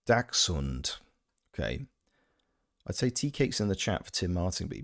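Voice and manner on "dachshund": "Dachshund" said the American way; US pronunciation. Shown as a demonstration. Streamer quoting the US word to chat, American pronunciation. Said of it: "In the U S, we say".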